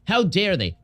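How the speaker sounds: un grido di sdegno; mock yell. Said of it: "she started yelling at Republicans".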